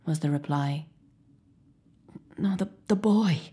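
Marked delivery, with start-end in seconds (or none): 2.4-3.4 faint irritable whisper. Acted. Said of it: "he repeated irritably".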